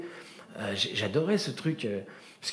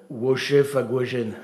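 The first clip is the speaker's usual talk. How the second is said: clumsy pupil; much slower than usual. Retold or imitated. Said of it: "Brunet était".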